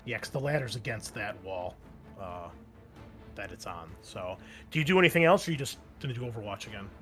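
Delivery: normal talking voice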